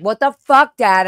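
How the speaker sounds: sharp high angry cry at dad; retold furious yell; angry outburst. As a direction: snap at him, startled and mad. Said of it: "I got mad".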